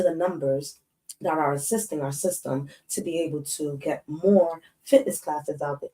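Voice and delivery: lightly voiced office presenter, measured and proper; formal work voice. Shown as a demonstration. Showing chat how she spoke at government meetings, soft formal presenter voice. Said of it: "I was working for the government".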